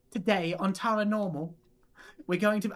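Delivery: mock British TV host; British presenter. A hint of British host opening a ghost show. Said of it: "why did I make her British".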